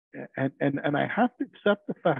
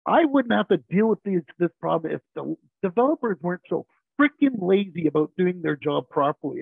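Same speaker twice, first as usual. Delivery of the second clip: retold frustrated rant, higher and louder; angry outburst; 3 semitones higher, 5 dB louder than usual. QA venting about lazy developers in a meeting, angry outburst. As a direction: re-enact a colleague losing her temper. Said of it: "And she lost it".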